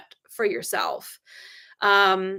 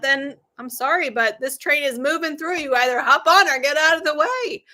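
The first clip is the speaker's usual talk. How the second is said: loud, emphatic, louder in bursts; firm declaration; 3 semitones higher, 4 dB louder than usual. Retold or imitated. Telling her husband where she stands, in a loud emphatic voice. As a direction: lay down the law with total conviction.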